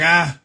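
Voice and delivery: angry groan. Retold or imitated. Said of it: "then I was angry".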